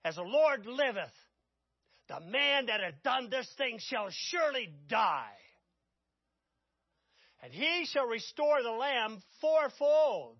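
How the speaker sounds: loud, slow, furious pronouncement; David's angry oath. Acted. Preacher voicing angry King David to Nathan, loud and slow. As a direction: thunder out the king's verdict. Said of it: "He erupts. He's angry".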